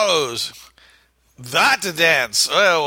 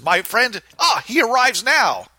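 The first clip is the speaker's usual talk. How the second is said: put-on Spanish accent; 8 semitones higher than usual. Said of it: "he says".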